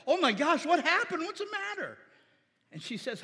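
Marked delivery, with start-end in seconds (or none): 0.1-2.0 alarmed mother. Retold or imitated. Wife voiced reacting to crying daughter.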